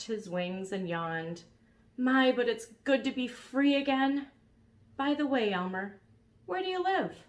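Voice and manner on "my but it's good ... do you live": high, loud dragon voice; freshly freed dragon; cheerful dragon voice. Acted.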